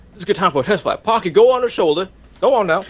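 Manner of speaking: high, eager character voice; lightly voiced Pocky's keeper. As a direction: coax a pet onto a shoulder, high. Game master voices figure to Pocky.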